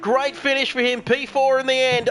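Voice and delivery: drawn-out play-by-play with a stretched "wowee"; excited race commentary. Real, not acted. Commentator calls Branchy across the line, excited race commentary. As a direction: ring the car home phrase by phrase.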